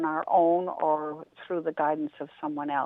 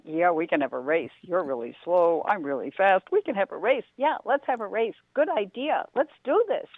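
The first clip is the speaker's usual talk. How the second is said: a cocky bunny getting pumped up; excited rabbit. Acted. Rabbit accepting Turtle's race, building eager excitement.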